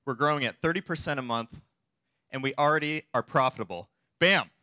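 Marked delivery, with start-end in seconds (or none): 4.2-4.5 excited exclaim. Acted. Punchline exclaim in pitch.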